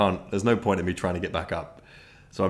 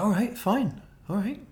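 reluctant giving in; 11 semitones higher than usual. Retold or imitated. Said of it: "She was like".

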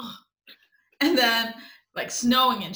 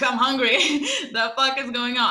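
louder, fed-up hungry outburst with a laugh; exasperated outburst; 4 dB louder than usual. Retold or imitated. On the date, telling the guy she's starving, fed-up outburst. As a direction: blurt it out, half laughing, starving and annoyed. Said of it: "I was like".

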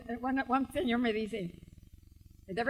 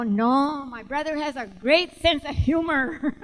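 laughing protest; 8 dB louder, slower than usual. Retold or imitated. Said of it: "I go".

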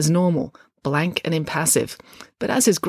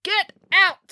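high, sharp angry order; irate old lady snapping; snapped; 3 dB louder than usual. A narrator's reading. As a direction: order them out in a temper. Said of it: "snapped the cat lady".

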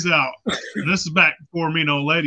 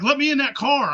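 put-on much higher, pushy drunken demand; 9 semitones higher, 3 dB louder than usual. Drunk to the cops, high pushy demand. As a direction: beg your way into the cruiser. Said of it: "I was like".

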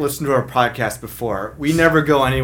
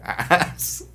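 Sling Blade impression; 5 semitones lower, 4 dB quieter, slower than usual. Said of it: "I was thinking Sling Blade".

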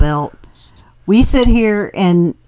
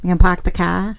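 put-on Boston accent; 3 dB quieter than usual. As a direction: drop the R's like a Bostonian. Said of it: "I could do Boston".

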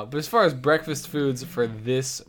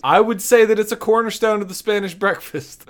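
mock pompous read; 9 semitones higher, 7 dB louder than usual. Mock reading the article.

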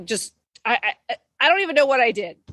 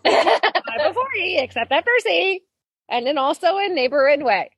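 laughing recitation; 5 semitones higher than usual. Retold or imitated. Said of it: "I get it in my head".

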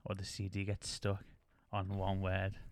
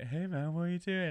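higher mock-confrontational voice; boyfriend's challenge; 8 semitones higher than usual. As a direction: pitch it up, playing the bothered boyfriend. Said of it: "their boyfriend's like".

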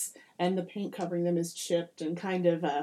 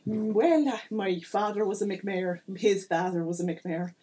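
mayor; 3 dB louder than usual. Acted. Game master plays Mickey McMayer.

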